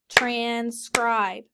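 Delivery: transcribe split into two beats; clapped syllables. Shown as a demonstration. Teacher models clapping syllables for students. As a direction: tap out trans-cribe. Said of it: "Clap it".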